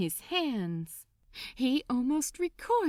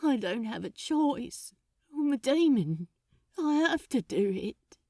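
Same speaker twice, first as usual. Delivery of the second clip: tearless despair; 3 semitones higher than usual. Acted. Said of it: "a sob without tears".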